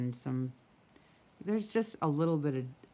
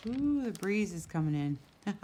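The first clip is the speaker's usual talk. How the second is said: surprised ooh; 5 semitones higher than usual. Real, not acted. Surprised by breeze on camera.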